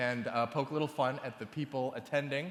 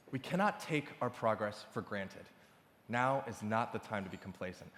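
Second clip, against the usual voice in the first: softer, earnest speech to the room; serious; 3 semitones lower, 4 dB quieter than usual. Real, not acted. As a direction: drop the jokes and speak earnestly. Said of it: "I wanna get serious for a split second".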